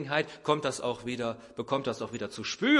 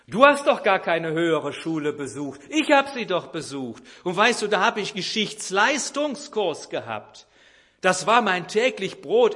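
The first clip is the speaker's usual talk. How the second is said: offended father; 4 semitones higher, 6 dB louder than usual. Retold or imitated. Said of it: "Da wird der Vater beleidigt".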